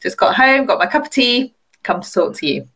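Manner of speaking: natural South London English accent; everyday South London accent. Real, not acted. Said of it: "You're gonna give it away when you start talking".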